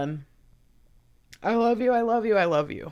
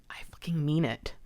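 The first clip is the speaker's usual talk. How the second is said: hushed, unvoiced whisper; 5 dB quieter than usual. Real, not acted. To viewers she calls family, whispering it. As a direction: breathe it out with no voice.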